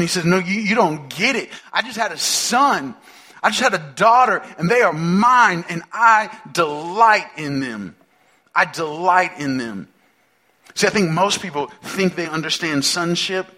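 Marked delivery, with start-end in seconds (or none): 0.2-9.9 overjoyed new dad. Acted. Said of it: "the dad who comes out of the delivery room and is so obnoxious".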